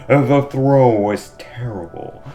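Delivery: a hint of a hard-boiled detective; cold probing inspector. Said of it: "I gotta get into my detective voice".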